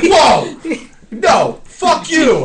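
high, loud mock outrage; retold angry comeback. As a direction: imitate indignant people yelling back. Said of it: "And they're like".

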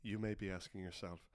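deadpan teacher voice, measured with pauses; solemn class instructor. Acted. Instructor addresses class on explosive punching, solemn low mock lecture.

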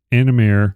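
"Animare" read as English, ending like "mare"; phonetic English reading. Shown as a demonstration. Host unsure of the Latin, "Animare" sounded out as English "anna-mair". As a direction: say "Animare" by English spelling, final syllable "mair". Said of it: "I'm just gonna say 'em phonetically".

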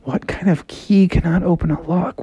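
lightly voiced frog mulling a riddle; pondering Froggy. Froggy repeats the house's riddle to himself, lightly puzzled. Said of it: "And Froggy's like".

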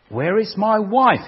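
slow loud cry; screamed. Acted. Man alone in hell screams for his wife, slow. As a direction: scream out the question, drawn out. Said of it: "he screamed".

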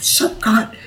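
high, badly faked Aussie retort; hammed-up Australian heckle; mock Aussie telling someone off; horrible Australian accent. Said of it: "my horrible Australian accent".

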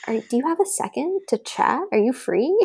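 lightly casual, questions lifting at the ends; breezy, offhand retold text; mock casual. Texting her husband while in labor, mock casual. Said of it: "I text him very casually".

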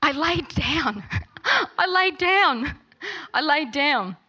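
giggling through the words; a sheepish confession, laughing. Retold or imitated. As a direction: laugh while owning up. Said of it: "I was laughing".

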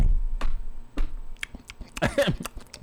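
wordless noisy mouth sound; Vato V impression. Host mocking his co-host without words, voiceless mouth noise. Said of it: "my impression of Vato V".

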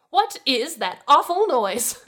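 high, loud, drawn-out groan of disgust; haughty, loud groan; groaning complaint. A narrator's reading. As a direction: groan it out slowly, appalled at the racket. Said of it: "groaned before stopping".

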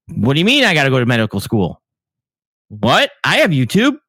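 mock-indignant, pitch leaping on the questions; mock incredulity. Imitating a YouTube-taught amateur told to study medicine, mock incredulous. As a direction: play the baffled know-it-all, badly affronted. Mocks self-appointed online medical experts.

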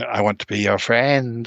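slow, eerie radio voice; spooky voice. Retold or imitated. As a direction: draw it out like a ghost. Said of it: "this spooky voice going".

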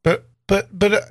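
put-on high child's voice, halting; protesting little boy. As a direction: stammer a protest as an eight-year-old. Player voices eight-year-old Carl.

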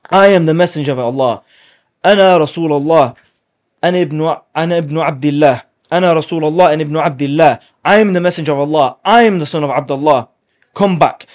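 rally the fleeing men with a loud cry; retold battlefield shout. Prophet calling fleeing companions back, loud rallying shout. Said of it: "stood up and shouted to the companions".

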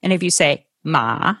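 "ma" dipping low; "ma" in the third tone, horse. Shown as a demonstration. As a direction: drop "ma" low and let it dip. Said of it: "that's horse".

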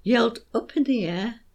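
put-on beats marked on young, teddy, Bill; stressed rhythm. Shown as a demonstration. Teacher showing parents the beat, stressed. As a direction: tap out the rhythm of "There was a young teddy named Bill". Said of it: "Here's how it works".

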